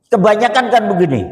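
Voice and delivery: usual speaking voice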